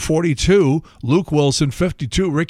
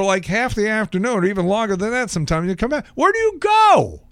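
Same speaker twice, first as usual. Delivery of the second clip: high, pleading dog voice; a lonely pet asking, rising to a squeal; talking dog; 5 semitones higher than usual. Pretend. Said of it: "the first thing he'd say is".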